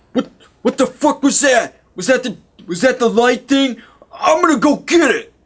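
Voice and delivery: high, loud hammed-up redneck outburst; angry redneck. Game master voicing Jake hearing the scream, hammed-up outburst. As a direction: play up Jake, fired up and reckless. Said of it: "Jake's like".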